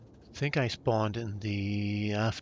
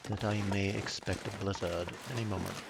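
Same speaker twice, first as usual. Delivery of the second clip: a dry, mock-formal British accent; dry British accent, lightly put on; 3 dB quieter than usual. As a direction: play the stiff British gentleman, deadpan. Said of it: "my very dry British accent".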